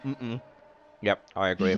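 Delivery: talking while eating ice cream; mouth full. Real, not acted. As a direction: speak around a mouthful. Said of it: "Are you eating".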